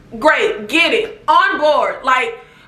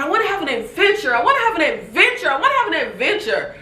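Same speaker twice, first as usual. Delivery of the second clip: fast mocking whine; mild mock of Portia repeating herself; 3 semitones higher, faster than usual. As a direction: parrot her, fast and whiny. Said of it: "Portia kept talking about".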